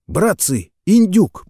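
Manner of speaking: jeering shout, rising high on индюк; mocking call. A narrator's reading. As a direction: taunt the captain from above. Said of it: "произнёс чей-то голос сверху".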